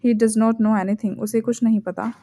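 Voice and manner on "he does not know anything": very slow, careful model sentence; slow and clear. Shown as a demonstration. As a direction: say it slowly and clearly for learners. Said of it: "correct version देखते हैं". (धीरे और साफ़ बोलना)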